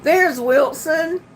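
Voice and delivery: bright, drawn-out hello to a friend; cheerful greeting. Real, not acted. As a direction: greet him warmly and slowly. Greeting a viewer in chat.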